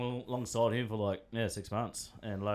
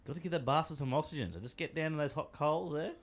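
mock campers' tip; 3 semitones higher than usual. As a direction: pitch it like a playful how-to for campers. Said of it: "a handy tip for you campers".

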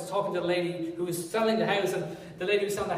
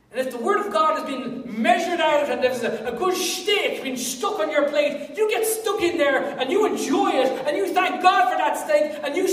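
full-force preaching; 6 semitones higher, 6 dB louder than usual. Acted. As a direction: rouse the congregation with a big call.

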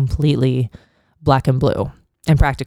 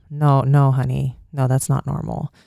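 tender reassurance. Retold or imitated. Comforting the crying abused girl.

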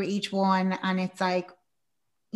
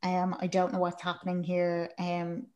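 softly voiced, downbeat quote; hushed, low-key imitation of pleading; subdued retold plea; 3 semitones lower, 7 dB quieter than usual. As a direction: say it quietly, like a subdued confession. Acted plea to leave.

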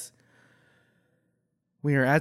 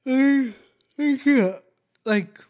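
exasperated; 11 semitones higher, 7 dB louder than usual. Real, not acted. Reacting to show, exasperated.

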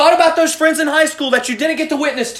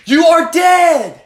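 emphatic shout; 4 semitones higher, 5 dB louder, much slower than usual. Real, not acted. Preacher hammering the point.

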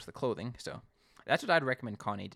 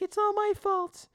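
much higher, slow guilty wail; mock confession; 4 dB louder, slower than usual. Simon running in to take the blame, high and slow. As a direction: drag out the confession dramatically. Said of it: "He's like".

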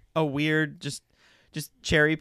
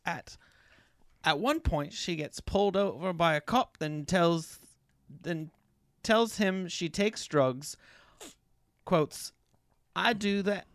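put-on British reading voice; lightly affected British accent. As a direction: deliver the review in mock British. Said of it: "keep doing British".

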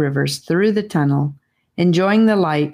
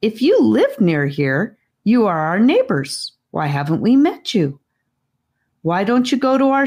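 a lightly voiced, slightly higher pleading child; a child's eager questions, a hint higher than the narrator; earnest child; 5 semitones higher than usual. Children's lines voiced in story.

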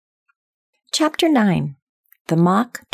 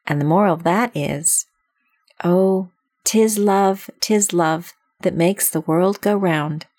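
slow, sing-song lofty duchess; imperious plummy grande dame; slower than usual. Acted. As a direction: intone the moral grandly. Duchess reciting a moral.

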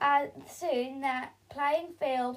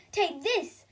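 1 snap; 5 semitones higher, 3 dB louder than usual. Acted. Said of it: "snapped Camilla".

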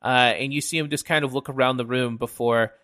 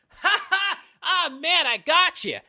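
much higher, laughing triumph; loud laughing gloat. Acted. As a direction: crow with laughter over the prank. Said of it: "let out a very loud laugh".

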